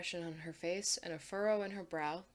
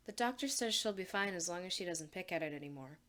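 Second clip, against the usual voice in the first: robotic, emotionless delivery; faster than usual. Acted. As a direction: recite it like a robot, detached. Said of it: "She says the words robotically".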